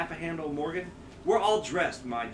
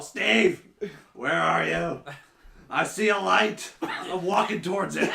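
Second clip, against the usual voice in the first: put-on drunken call; 4 dB louder, slower than usual. Acting out his friend's drunken phone call.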